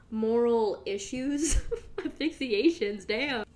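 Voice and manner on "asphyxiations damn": Asphyxiations repeated through a laugh at her own slip; laughing at the word. Real, not acted. Catching her own wrong word, laughing. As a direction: laugh out Asphyxiations, mocking the mistake. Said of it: "that's not how you use that word".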